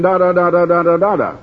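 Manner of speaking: even-toned "da-da-da" babble; meaningless droning. Retold or imitated. Husband recalling his wife's Bible reading, meaningless droning. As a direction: imitate reading that is just empty syllables. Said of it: "it was just like saying".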